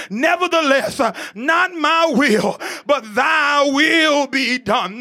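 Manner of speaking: slow, drawn-out, called-out surrender; surrendering prayer. Acted. Jesus yielding to the Father's will, slow surrender. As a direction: let every word of the surrender stretch out. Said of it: "And finally he says".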